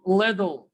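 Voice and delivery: little said as liddle; American flap t. Shown as a demonstration. Teacher modelling American English, d sound in little. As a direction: turn the tt in little into a d. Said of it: "But in the American English".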